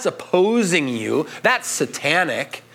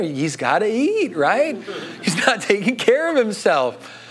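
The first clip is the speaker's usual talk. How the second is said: lightly voiced fussing Jewish mother, laughing; a hint of a worried mother, then a laugh. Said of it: "That was a terrible impersonation".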